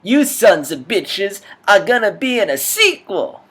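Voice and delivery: very high, very loud furious yell; loud ranting captain; angry cop yell. Acted. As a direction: bark it at the whole squad. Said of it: "a rapper's character".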